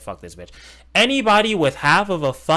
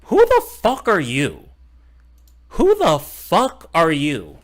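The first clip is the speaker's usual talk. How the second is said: retold angry retort; 4 semitones higher, 5 dB louder, slower than usual. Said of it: "I'm like".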